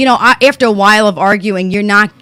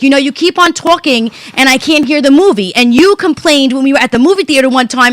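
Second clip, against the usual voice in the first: higher, irritated retold snap; snappy complaint; 4 semitones higher than usual. Wife snapping at chatty husband during movie, irritated. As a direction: snipe at him with a mild edge of annoyance. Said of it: "I'm really sorry for how I said that".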